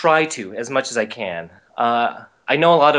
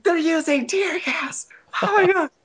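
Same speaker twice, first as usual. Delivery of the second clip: high-pitched mock panic; retold panic. Telling how he fled indoors from tear gas, retold panic. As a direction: squeal in hammed-up alarm.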